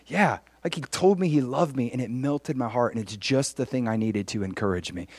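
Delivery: soft, sincere confiding; tender testimony. Acted. Telling a coworker God loved me, tender testimony. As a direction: share it quietly, lightly acted.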